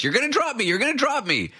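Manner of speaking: put-on high-pitched old-lady screech; imitated screaming. Host mimics old lady accusing her helpers, high mock scream. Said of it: "she's just screaming at us".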